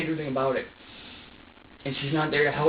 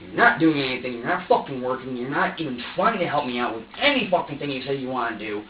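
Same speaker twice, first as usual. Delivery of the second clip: angry retold rant, punching the key words; pissed off; 3 dB louder than usual. Father railing at his absent partner, pissed off. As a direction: build into an accusing, frustrated tirade. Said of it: "The more fucking pissed I get".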